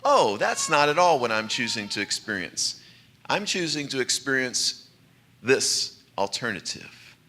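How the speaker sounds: gently steer the thought away; gentle and calm. Retold or imitated. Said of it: "very gently and very calmly say".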